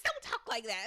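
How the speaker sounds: imitated pissed-off dad. Jim reprimanding his son over burying Mom, mock angry. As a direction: act out an angry parent's rebuke. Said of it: "Jim gets so pissed off".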